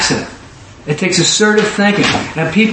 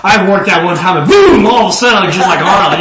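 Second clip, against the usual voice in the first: lightly hammed-up sarcastic bodybuilder, laughing; loud mock boast with a big BOOM; 3 dB louder than usual. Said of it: "the bodybuilder's like".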